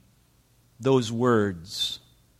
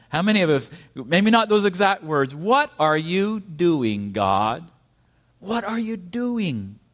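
rising questioning plea; 3 semitones higher than usual. Acted. Preacher voicing congregation's question.

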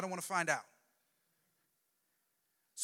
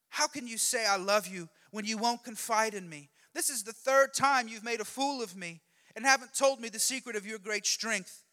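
raised, louder complaint from Delilah; nagging; 5 semitones higher, 6 dB louder than usual. Acted. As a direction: nag him with loud, wounded reproach. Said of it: "With such nagging".

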